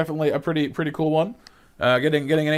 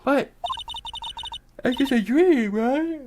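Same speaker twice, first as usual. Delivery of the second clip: words swallowed by a real yawn; high, slurred speech mid-yawn; 10 semitones higher, slower than usual. Real, not acted. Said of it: "Could I just stop yawning?".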